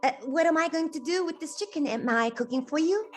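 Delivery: a hint of a gruff giant grumbling over the chicken. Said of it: "and the giant comes".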